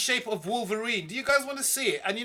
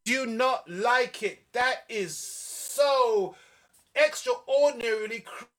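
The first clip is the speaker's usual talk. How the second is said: hammed-up wounded disbelief, drawn out slowly; slow mock-offended whine; mock hurt; 3 semitones higher, slower than usual. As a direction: pretend to be deeply offended. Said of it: "Haru says, "I don't like it".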